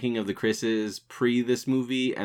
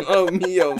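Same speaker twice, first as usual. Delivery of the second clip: high, loud Southern-belle squeal; hammed-up belle exclamation through giggles; mock Southern belle; 10 semitones higher, 6 dB louder than usual. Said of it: "He's just a Southern belle all of a sudden".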